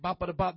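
quick babbled syllables; tongues-like babble, retold; imitated tongues. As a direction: rattle off a snippet of tongues. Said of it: "That was my tongue to him".

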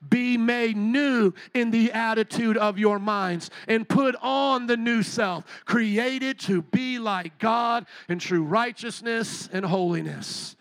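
slow, deliberate reading together; slow unison Bible reading; scripture read aloud. Shown as a demonstration. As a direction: lead the room through the verse word by word. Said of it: "Read this with me".

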